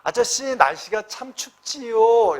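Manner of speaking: put-on slow, friendly small talk to an older man; polite friendly remark. Shown as a demonstration. Student greeting a neighbor in the haeyo style, slow and friendly. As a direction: chat warmly and slowly to a stranger. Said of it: "해요체고".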